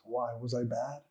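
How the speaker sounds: put-on soft, hushed little boy asking; small son's voice. Son hugging his father's legs, hushed little child voice. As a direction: barely voice the child's question. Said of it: "his little face winces and he says".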